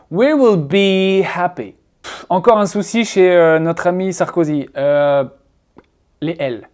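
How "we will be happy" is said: slow "be" held long, "happy" ending short. Shown as a demonstration. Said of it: "un mélange entre un E et un I".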